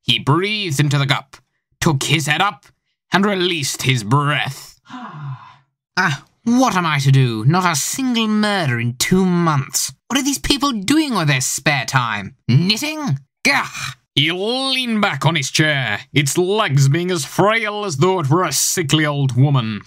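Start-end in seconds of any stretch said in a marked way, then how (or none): 6.0-13.7 a lightly voiced world-weary detective, sighing; bored detective. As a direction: moan about the lack of murders, bored stiff. Smith's weary inner voice.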